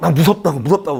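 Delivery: put-on words broken by tearful, frightened crying. Retelling being terrified in prayer, imitating crying while speaking. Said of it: "울면서".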